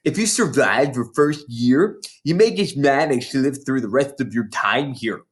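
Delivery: a lightly voiced big schoolgirl, gloating; bossy older girl. Hortensia sneering at the new girls, mildly voiced. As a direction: relish scaring the little ones.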